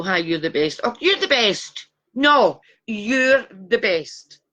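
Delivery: broad Glaswegian vowels; Glasgow accent. Real, not acted. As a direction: slip into a thick Glasgow accent. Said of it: "Went right into my Glasgow accent there".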